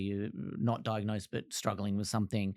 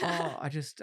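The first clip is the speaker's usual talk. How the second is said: quiet weeping; 5 semitones higher than usual. Real, not acted. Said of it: "I was gonna cry in this".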